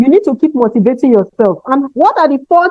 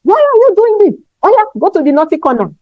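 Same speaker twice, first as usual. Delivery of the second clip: impatient teacher; 6 semitones higher, faster than usual. Retold or imitated. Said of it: "a lot of us will say".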